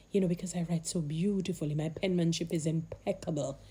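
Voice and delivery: dry, understated sarcasm; mock self-praise, played straight; sarcastic. Real, not acted. Vlogger joking about her own messy handwriting, sarcastic. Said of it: "I'm being sarcastic".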